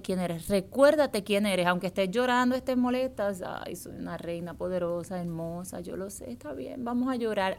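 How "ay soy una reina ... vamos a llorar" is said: much softer, gentle words to herself; soft self-talk. Retold or imitated. Woman soothing herself while upset, much softer. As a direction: comfort yourself quietly while crying. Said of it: "Así a veces yo me hablo".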